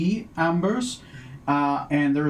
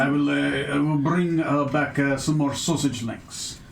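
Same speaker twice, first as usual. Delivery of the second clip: bad Ferellian accent. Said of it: "with a Ferellian accent, a bad Ferellian accent".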